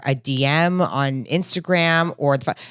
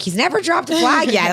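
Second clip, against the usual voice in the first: much higher, playful put-on voice; mock disbelief; 12 semitones higher than usual. Telling her co-host about Greg, high mock disbelief. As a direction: squeak it out in mock amazement.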